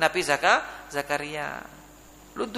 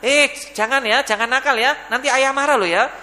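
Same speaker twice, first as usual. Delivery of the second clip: higher-pitched mock admonishing; lightly acted warning parent; 5 semitones higher, 4 dB louder than usual. Father warns naughty child he will get cross, mildly scolding.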